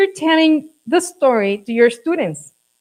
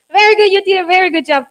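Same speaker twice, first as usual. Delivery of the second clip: enthusiastic praise; 4 semitones higher, much faster than usual. Real, not acted. Teacher praising class after dance.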